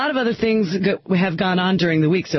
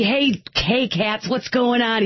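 mock cool-guy greeting; 3 semitones higher, slower than usual. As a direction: play at being real cool, mockingly. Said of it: "You know, real cool and everything".

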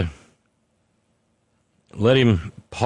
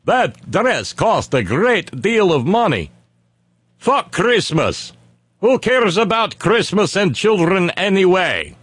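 mock Melania; 4 semitones higher than usual. Voicing Melania dismissively.

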